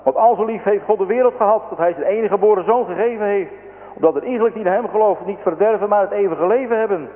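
high, urgent recitation of scripture; boy's fervent cry, as read by a narrator; calling out. A narrator's reading. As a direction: proclaim the verse eagerly, pitched well up. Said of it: "riep de kleine arme jongen".

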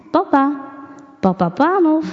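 high, lilting call. A narrator's reading. Mysterious voice calling the sleeping shoemaker, calling. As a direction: call out to him, pitched well up. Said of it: "plotseling hoorde hij een stem".

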